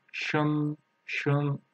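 "shun" held with a rising tone; second tone demo. Shown as a demonstration. Teacher drills the second tone, drawn-out "shun". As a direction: lengthen "shun" and lift it. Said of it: "second tone".

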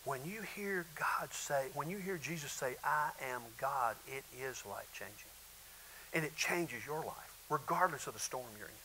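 hushed sincere. Real, not acted. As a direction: lean in and say it softly. Preacher drops to intimate hush.

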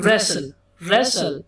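रेसल said slowly as "res-sal"; pronunciation demo. Shown as a demonstration. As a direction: model रेसल slowly, with a silent t. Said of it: "उसकी आवाज खुद निकल के आएगी". (रेसल धीरे-धीरे, साफ़ उच्चारण में)

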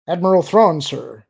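high, loud, rattled plea; respectful, bewildered fear. Acted. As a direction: call out, respectful but scared. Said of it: "mix respect and bewildered fear into his tone".

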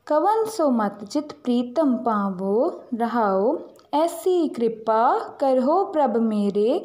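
slow, measured reading of scripture; slow shabad recitation. Shown as a demonstration. Teacher recites the shabad for children to memorise, slow and measured. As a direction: recite each line slowly and reverently.

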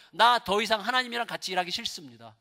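acted outburst of frustration; angry Elijah. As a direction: have it out with God, voice climbing. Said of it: "막 화를 내는 거예요".

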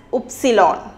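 upsilon said oopsilon; name of Y in German. Shown as a demonstration. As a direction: model the letter name. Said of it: "It is said as upsilon".

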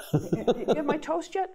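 a mild imitation of mom demanding her toast; impatient old mother.

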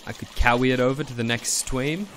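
cutesy lisp; w for r baby talk; uwu voice. Acted. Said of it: "uwu voice".

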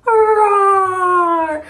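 lion roar. Pretend. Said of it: "Lion says".

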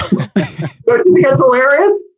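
slow, laughing through the question; chuckling in disbelief at the irony. Real, not acted. Host laughs to guest about lead-selling companies.

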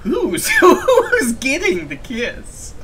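put-on amateur French accent for a mysterious character; bad French accent. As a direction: attempt a theatrical French accent. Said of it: "suffer through this French accent".

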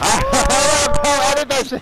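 slow, loud, high triumph; excited. Real, not acted. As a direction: drag it out in triumph. Triumph after a play.

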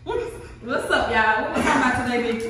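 loud, laughing hype greeting; excited greeting. Real, not acted. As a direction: greet the viewers all fired up. Hyped greeting to viewers.

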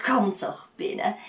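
coaxing invitation, falling at the end; sweet come-in call closing down; inviting old woman. Acted. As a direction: settle the invitation warmly. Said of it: "Gelukkig sprak ze vriendelijk".

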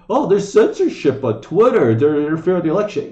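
high, loud whiny mockery of Trump; mocking whine. Streamer mocks Trump complaining about Twitter censorship, whiny and loud. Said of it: "he was bitching about".

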